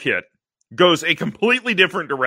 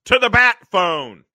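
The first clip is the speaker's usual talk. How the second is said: loud, urgent call; O'Hara; 5 semitones higher, 9 dB louder than usual. Retold or imitated. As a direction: call it out like a police chief. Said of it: "O'Hara says".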